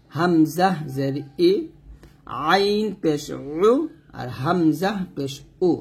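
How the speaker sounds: হামজাহ said light and slow, no throat press; light hamza. Shown as a demonstration. Teacher shows students a light হামজাহ, slow. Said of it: "এখানে হালকা করে বলতে হবে".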